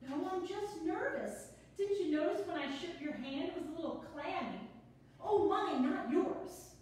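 quick, bubbly, a little flustered; nervous newcomer rattling on; nervous chatty woman. Acted. Sonia flustered, laughing.

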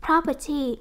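"property" with the weight on PROP; stress on first syllable. Shown as a demonstration. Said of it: "các em nhấn âm một luôn nha".

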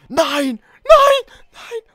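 screaming no, very high and loud; desperate screaming no. Real, not acted. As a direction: scream in despair. Live reaction to near fall.

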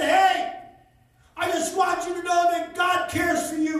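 loud call across the traffic; retold scream. Preacher retells calling to a stranger, loud. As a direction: call out so she can hear you. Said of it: "So I screamed it as loud as I".

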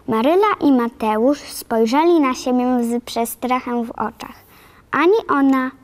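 ordinary delivery, nothing marked

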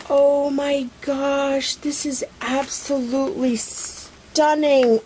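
awed delight. Real, not acted. Admiring the lace for viewers, awed delight. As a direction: linger on it, stunned and delighted. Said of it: "so, so excited".

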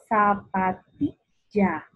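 "Zapatilla" slow, syllable by syllable; separado en sílabas. Shown as a demonstration. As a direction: break "Zapatilla" into za-pa-ti-lla, drawn out. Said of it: "voy a empezar a identificar la separación de las sílabas". ("Zapatilla" lento, sílaba por sílaba)

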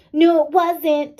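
loud, high, slow mock-angry no; angry retort. A narrator's reading. Girl arguing back at her friend, mock-angry. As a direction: snap back like a hurt kid. Children quarrelling in story.

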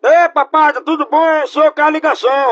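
loud, cheeky taunting greeting. Acted. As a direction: greet him loudly to provoke him. Prank caller calls back taunting. (provocação em voz alta)

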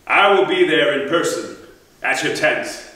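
a haughty threat that swells as it goes; scornful king dismissing a warrior. Acted. Agamemnon answers in scorn.

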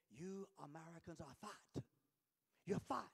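imitated Nigerian accent with a punched ending; blunt verdict in a put-on Nigerian accent; Mbumi, Nigerian accent. Preacher quoting his Nigerian friend on America, imitated Nigerian accent. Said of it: "And in his accent of Nigerian".

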